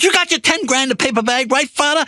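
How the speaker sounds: high-pitched raging gangster, imitated; psychopath losing it. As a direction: taunt the priest in a mock high rage. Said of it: "see a psychopath just lose it".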